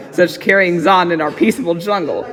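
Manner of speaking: usual speaking voice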